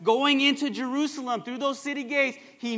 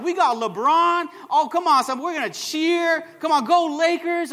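mock hyped fan; 4 semitones higher, 4 dB louder than usual. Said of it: "we're like".

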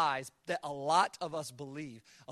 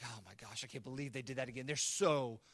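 exasperated God; 4 semitones lower than usual. Retold or imitated. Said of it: "he's like".

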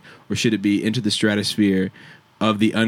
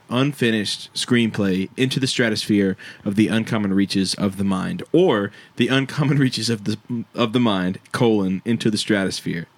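dictating. Acted. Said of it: "read it back to me".

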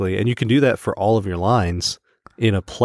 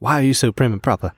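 lightly put-on British accent; mock British; 3 semitones higher than usual. One reunited group teases the other, mock British.

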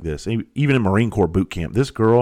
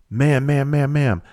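higher-pitched call of warning; mildly raised voice, as if calling down to someone; imitated yelling down; 5 semitones higher than usual. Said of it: "the guy yells down".

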